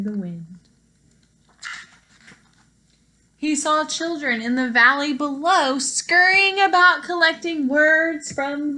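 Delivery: lively storybook read-aloud for a class; reading to children. Acted. Teacher reading a picture book to her class, lively storytime voice.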